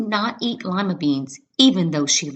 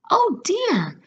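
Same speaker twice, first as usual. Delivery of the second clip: sad sigh; 13 semitones higher than usual. A narrator's reading. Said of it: "the old woman said sadly".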